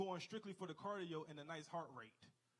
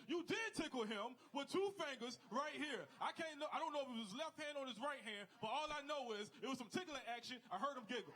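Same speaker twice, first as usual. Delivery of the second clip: heated accusing chorus; 5 semitones higher than usual. Retold or imitated. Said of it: "was like".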